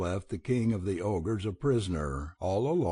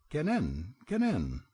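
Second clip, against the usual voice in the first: pheasant call; 4 semitones higher than usual. A narrator's reading. Pheasant calls again.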